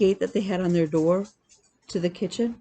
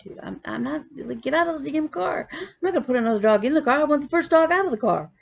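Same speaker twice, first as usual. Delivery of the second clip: exasperated retort; 7 semitones higher than usual. Retold or imitated. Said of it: "And I'm like".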